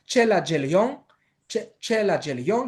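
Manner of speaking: slow ΤΣΕΛΑ ΤΖΕΛΙΟΝ, rising end; hushing consonants in ΤΣΕΛΑ ΤΖΕΛΙΟΝ, slowly; thick ch and dzh. Shown as a demonstration. Teacher modelling the variant farewell, slow careful pronunciation. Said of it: "και παχύ ταυ ζήτα".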